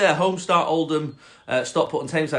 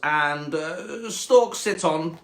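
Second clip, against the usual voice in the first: slow, superior cat listing rules; snobby cat; 2 semitones higher, slower than usual. Acted. Cat adding rules for the frog, snobby and slow. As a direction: recite the list snootily, drawn out. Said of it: "quite a snobby cat".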